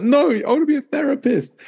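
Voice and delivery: put-on high-pitched African accent on "therapist"; squeaky African accent, insisting. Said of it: "trying to say therapist in an African accent".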